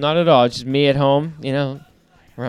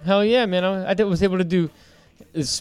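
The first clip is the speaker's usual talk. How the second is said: proud, pumped-up boast; 5 semitones higher than usual. Retold or imitated. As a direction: brag it like a winner. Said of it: "He was all proud about it".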